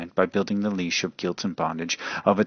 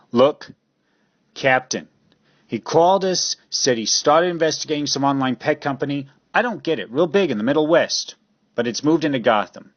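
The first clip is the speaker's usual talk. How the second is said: urgent report; 6 semitones higher, 4 dB louder than usual. Acted. Officer urgently briefs captain.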